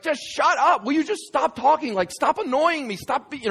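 high, fed-up outburst; exasperated mock yelling. Man to the lizard that keeps talking, exasperated high yelling. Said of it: "they're yelling at each other".

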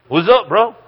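high, loud mock-casual greeting; mock bewildered guy. Man waking to two strangers, voiced with a high mock-casual greeting. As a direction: play a startled young man.

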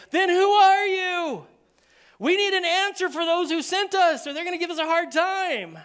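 high, loud, exasperated demand; impatient temple envoys pushing for a straight answer; frustrated questioners. Retold or imitated. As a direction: press him hard for an answer, fed up.

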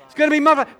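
loud, high emphatic plea as Jesus; Jesus urging. Acted. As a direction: urge the disciples loudly. Preacher voicing Jesus, emphatic.

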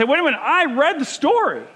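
high, loud, frustrated cry at God; screaming at God. Retold or imitated. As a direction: rail at God like he failed you. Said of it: "I start to scream at God".

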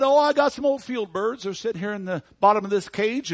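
put-on loud, high-pitched country boy; young boy. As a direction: pipe up like an eager little lad. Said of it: "this young boy".

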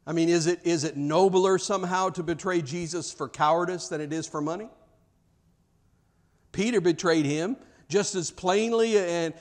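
ordinary talk

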